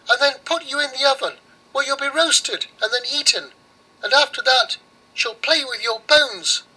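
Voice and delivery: very high mouse warning. Acted. Mouse warns the girl about Baba Yaga, very high. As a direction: squeak the warning urgently. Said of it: "and the mouse said".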